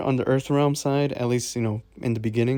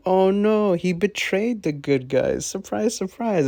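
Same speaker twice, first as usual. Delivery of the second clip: slow, raised sing-song sarcasm; mock surprise; 5 semitones higher than usual. Reviewer mocking the movie's betrayal twist, sarcastic surprise. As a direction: feign shock at a twist anyone saw coming. Mocks the film's predictable twist.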